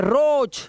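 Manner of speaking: रोज as "rohch" with a long "o"; teacher's model of roach, vowel drawn out. Shown as a demonstration. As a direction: hold the ओ in रोज. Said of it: "ओए का उच्चारण आपको ओ".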